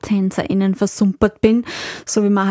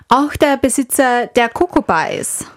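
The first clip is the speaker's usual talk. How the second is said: whispered aside; 3 semitones higher than usual. Real, not acted. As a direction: whisper it as a little secret. Confiding aside to co-host.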